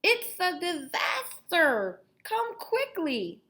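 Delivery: slow, high, loud toothless grandpa yell; old man calling upstairs in alarm; Grandpa still shouting. Acted. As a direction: drag it out like a panicked old man. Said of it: "He was still shouting".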